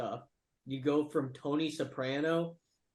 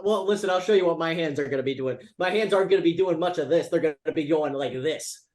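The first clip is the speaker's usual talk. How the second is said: loud trash talk; 7 dB louder than usual. Acted. Heated mock trash talk.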